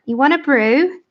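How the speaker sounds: put-on butchered Northern English accent. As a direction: have a rough go at Northern English. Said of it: "So you got up north".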